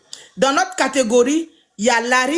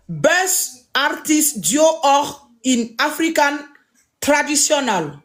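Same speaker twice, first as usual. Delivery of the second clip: slow careful repeat; 2 semitones higher, slower than usual. Shown as a demonstration. Repeating the category name for viewers, slow and careful. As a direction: read "Best Artist Duo or in African Traditional" slowly, word by word. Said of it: "Je répète encore".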